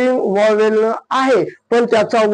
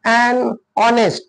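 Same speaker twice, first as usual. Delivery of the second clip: 1 slow model phrase; much slower than usual. Shown as a demonstration. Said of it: "म्हणून काय वापरायचं".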